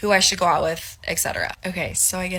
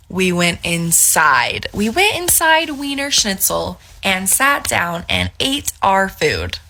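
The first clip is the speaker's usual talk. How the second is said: outraged disbelief; 6 dB louder, slower than usual. Real, not acted.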